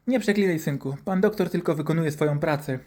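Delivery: acted motherly telling-off; admonishing mother. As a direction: gently reprimand a swearing son. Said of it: "upomniała mnie mama".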